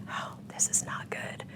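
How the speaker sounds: hushed, slow whisper of dread; an inner whisper, slow and hushed; whispered thought. Retold or imitated. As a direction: breathe it out under your breath.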